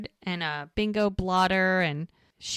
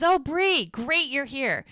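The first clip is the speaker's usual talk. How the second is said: gushing hostess; 6 semitones higher than usual. Retold or imitated. Charmaine's gushing greeting.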